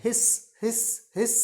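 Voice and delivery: repeated demonstration hisses; snake hiss. Shown as a demonstration. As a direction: hiss with a sustained s. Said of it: "snake का sound कैसे निकलता है".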